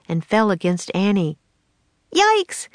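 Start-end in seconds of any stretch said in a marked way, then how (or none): 2.1-2.7 high, loud yelp of fright; startled shriek. Acted. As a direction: squeal as the eel hits her. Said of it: "she yelled".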